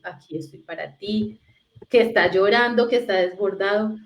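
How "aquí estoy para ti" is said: soft reassuring parent. Shown as a demonstration.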